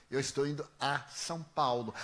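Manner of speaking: "a" set apart before "São Paulo"; stress on A. Retold or imitated. Correcting the man's grammar, stress on "a". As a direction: pick out the preposition "a" as a correction. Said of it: "corrigi a preposição".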